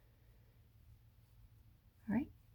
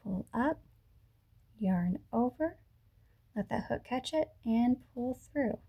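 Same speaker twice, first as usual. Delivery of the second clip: slow, slightly softer walk-through; slow demonstration; 5 dB quieter than usual. Shown as a demonstration. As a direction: leave room after each short step. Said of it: "I'll do that again slowly".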